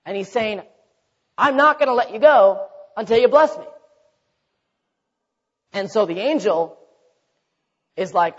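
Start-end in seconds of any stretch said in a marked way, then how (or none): 1.4-3.7 desperate cry. Retold or imitated. Jacob crying out to God.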